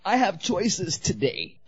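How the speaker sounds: high, loud, slow self-righteous proclamation building to a shout; storming off with the coke; grand mock exit. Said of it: "I went like this".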